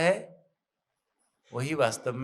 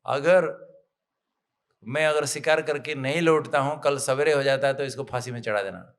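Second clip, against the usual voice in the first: firm, mildly angry royal order; acted-out annoyance, slightly raised voice; angry king; 4 dB louder than usual. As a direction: give a stern command as an offended king. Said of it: "राजा को इतना गुस्सा आया".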